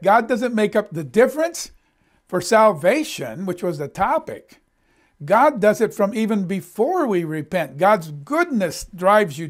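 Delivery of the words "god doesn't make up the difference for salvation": sharp high no, then slow insistence; inner protest. Retold or imitated. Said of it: "I'm thinking".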